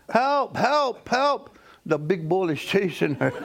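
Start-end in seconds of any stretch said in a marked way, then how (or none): 0.1-1.6 high mock cries of help; high frantic cries for help; hollering for help. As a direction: yell help in a high panicked voice. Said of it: "she's hollering".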